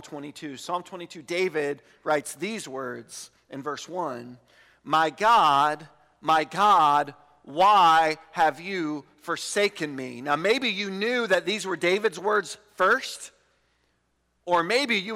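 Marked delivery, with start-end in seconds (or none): 4.8-10.2 firm, weighty reading, slowing at the end; emphatic scripture cry. Acted. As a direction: proclaim the lament with measured force. Reads the psalmist's cry to God.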